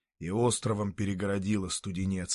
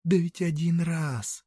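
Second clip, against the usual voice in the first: high, slow, coaxing woman; soft persuasion; 7 semitones higher than usual. Acted. Woman softly persuading a reluctant passer-by, high and slow. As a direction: draw it out gently to win him over. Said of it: "мягко убеждает она".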